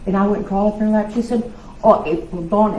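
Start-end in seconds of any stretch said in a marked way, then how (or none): 1.8-2.7 a light hint of a Massachusetts accent. Sister greeting her little sister in a mild Massachusetts accent. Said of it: "in her Massachusetts accent".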